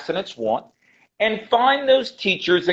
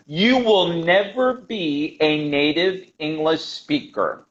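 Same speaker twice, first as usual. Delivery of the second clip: slow, deliberate statement; slow, emphatic; slower than usual. Real, not acted. Teacher telling a learner a hard truth, slow and emphatic. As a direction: spell it out slowly and firmly.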